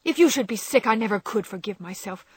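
lightly voiced frightened Joe; frightened sister. A narrator's reading. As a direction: fear for her sick sister.

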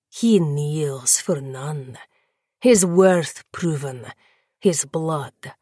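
slow, savouring praise; lightly voiced lord praising the defiant fledgling; pleased vampire lord. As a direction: relish every word. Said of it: "Nikita smiled wider now".

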